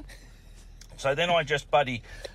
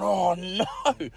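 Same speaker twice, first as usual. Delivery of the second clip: high, slow mock panic; panicked; 7 semitones higher, much slower than usual. Man realises he soiled himself, high slow mock panic. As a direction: wail at your own disaster. Narrator panicking over accident.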